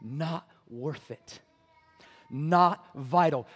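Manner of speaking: slow, soft, sneering enemy voice; a quiet, slow whisper of a lie; enemy's voice. Retold or imitated. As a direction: drag out the lie slowly and coldly. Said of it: "the enemy's going".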